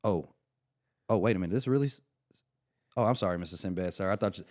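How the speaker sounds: loud, rushed, panicky apologizing; flustered apology. Retold or imitated. Young comic realizes he hung up on Sinbad, loud panicked apology. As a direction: babble sorry at full volume, caught out.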